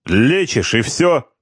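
put-on high, heated drunk protest; heated quarrel. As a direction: bicker over the cards. Drunk corporal quarrels at cards.

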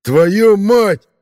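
high, loud howl of pain; screaming curse. Acted. Rollo after losing his ear, screaming in pain. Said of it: "завопил он".

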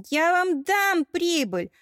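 high, loud, slow threatening shout; menacing threat. Acted. Mermaid warrior threatening robbers who want a share, loud menacing shout. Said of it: "грозно ответила Эль".

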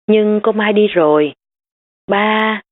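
put-on a child pleading with her father; upset little girl. Child voiced, pitched up.

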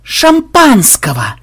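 slow, high drawn-out bellow; defiant loud holler; roaring. A narrator's reading. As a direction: roar it, stretching the word. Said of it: "взревел ксенобайт".

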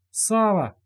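sharp high cry of his name. A narrator's reading. Зажим cries out to Сава in horror, high alarmed cry. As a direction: call out in alarm. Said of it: "вскричал Зажим".

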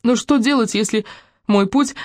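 a touch of weeping despair; tearful. A narrator's reading. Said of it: "плакала Руби". (Руби плачет перед Полом, с отчаянием)

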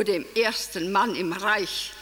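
"Mann" given the emphasis, softly spoken; stress on Mann. Acted. Emmy on the first man of the Reich, stressing "Mann". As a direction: lean gently on "Mann". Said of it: "Mit der Betonung auf Mann".

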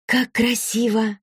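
high-pitched, slow wonder; admiring gasp. A narrator's reading. Daughter sees the lit-up house, gasping in admiration. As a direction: draw it out in awe. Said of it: "ахнула Василиса".

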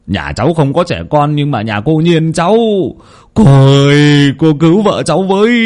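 a panicked husband pleading; begging villager. A narrator's reading. Bắc begs Cô Năm. (giọng lão Bắc van nài, cao và kéo dài)

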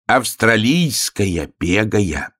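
very slow, proud announcement; self-important. Acted. Hare presents the frog as a dog, self-important. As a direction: stretch it out grandly. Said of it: "важно сказал заяц".

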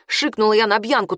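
plain reading voice

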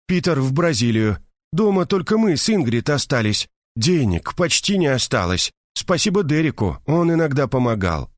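high, indignant gossiping woman; indignant Mercedes. A narrator's reading. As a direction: pour out the outrage to a friend. Mercedes lists misfortunes. (возмущённая Мерседес жалуется подруге)

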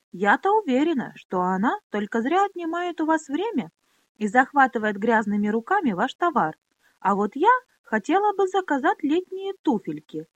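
high, sugary and condescending; ingratiating sneer. Acted. Pona sweet-talks the trader, sneering, high and sugary. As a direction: fawn on the merchant while mocking the girl. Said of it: "слишком вкрадчиво".

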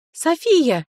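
high, loud call of a name. Acted. Liria calls out to Sofia in the corridor, high and loud. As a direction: call her from the dark niche.

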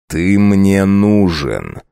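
very slow, measured; slow cold summons. Acted. Count summoning the werewolf servant, cold and slow. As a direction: draw each word out.

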